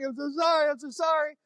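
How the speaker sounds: high-pitched tearful apology, imitated; mock crying apology. Patient retelling his apology to the nurse, high mock crying. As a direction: plead in a high, put-on cry. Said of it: "and I'm crying".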